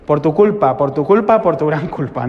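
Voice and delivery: imitated confession slip, "tu" for "mi"; mock penitential recitation. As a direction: chant the botched confession in three even beats. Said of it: "si estaba medio dormido, decías".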